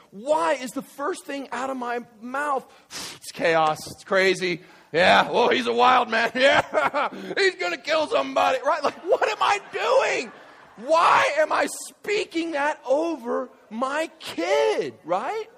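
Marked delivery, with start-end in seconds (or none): 3.2-8.6 put-on loud, laughing exasperation about the kids; hammed-up joking gripe, rising in pitch; mock boasting complaint. Mimics own joking about his kids. 8.8-14.9 high, slow, drawn-out shout; loud, stretched-out incredulous outburst; self-rebuking shout. Real, not acted. Preacher rebukes himself.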